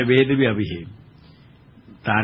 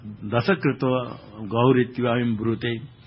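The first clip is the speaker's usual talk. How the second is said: Sanskrit recitation; 3 dB quieter than usual. Shown as a demonstration. Quoting a Sanskrit maxim.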